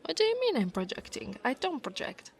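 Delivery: quick, high-pitched indignant retort; affronted, defensive denial. Acted. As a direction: bristle at the accusation. Accused of projecting, denies it.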